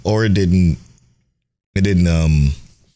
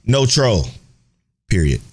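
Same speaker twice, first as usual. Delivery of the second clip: reading in all caps; 6 semitones higher than usual. Shown as a demonstration. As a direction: read the tweet like shouting in capitals. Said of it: "I had to read it in all caps for y'all".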